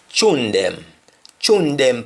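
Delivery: "tune them" as choon dem; Patois chune. Shown as a demonstration. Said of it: "we sometimes call them tune".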